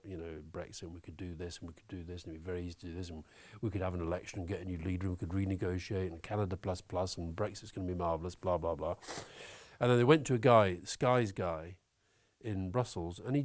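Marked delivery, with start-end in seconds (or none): 0.8-8.9 mocking drivel. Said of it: "with absolute drivel about".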